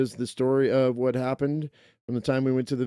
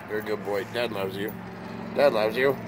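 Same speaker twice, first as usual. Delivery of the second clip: soft, low, close to the dog; hushed and tender to his dog; 3 semitones lower, 6 dB quieter than usual. Real, not acted. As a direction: murmur love to the puppy.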